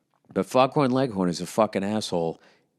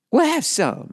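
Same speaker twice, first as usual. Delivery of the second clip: mock opera voice. Bugs mimicking the opera singer.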